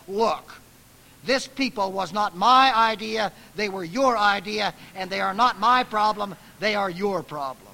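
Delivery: loud, exasperated rebuke; scolding God. Retold or imitated. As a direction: Moses dumping the problem back on God. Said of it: "he scolds God".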